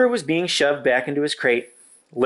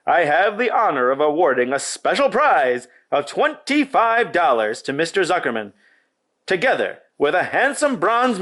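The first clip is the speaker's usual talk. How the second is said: booming fair announcer, a bit higher; 4 semitones higher than usual. Acted. Loudspeaker announcer to the fair crowd, grand and formal. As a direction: present the prize to the crowd like a showman.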